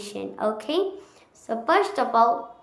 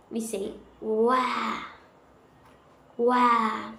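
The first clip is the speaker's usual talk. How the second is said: British accent; 5 dB quieter, slower than usual. Shown as a demonstration.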